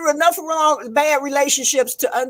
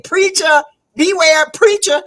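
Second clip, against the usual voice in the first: mock warning; 4 semitones higher, 5 dB louder than usual. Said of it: "He kept saying".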